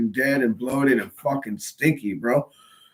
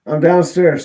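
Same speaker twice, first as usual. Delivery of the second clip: calling out loudly to another room; yelling across the room; 3 semitones higher, 7 dB louder than usual. Real, not acted. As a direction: raise your voice so upstairs hears. Mom didn't hear, repeats louder.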